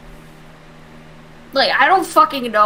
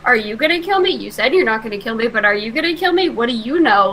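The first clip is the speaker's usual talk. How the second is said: frightened plea; faster than usual. Acted. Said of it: "looking at Dalvash".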